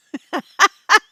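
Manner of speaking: high burst of laughter; laughing. Real, not acted. Host admitting she might, laughing high. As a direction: crack up at your own admission. Laughing at her own joke.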